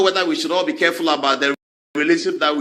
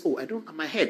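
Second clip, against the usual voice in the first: soft, lower, fake-suffering murmur; mock pained; 4 semitones lower, 8 dB quieter than usual. Lawyer claiming his head hurts, softly fake-pained. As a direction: sell a pretend headache.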